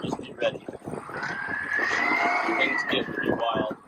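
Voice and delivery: whispering. Real, not acted. Hushed warning to crew.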